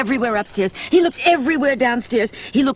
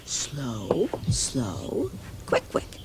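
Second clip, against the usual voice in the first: slow versus quick; 9 semitones lower, 10 dB quieter, much slower than usual. Shown as a demonstration. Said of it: "Take a look".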